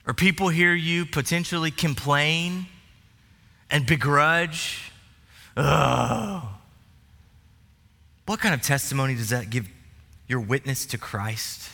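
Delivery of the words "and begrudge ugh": mock grumbling. Mocking grumbling complainers.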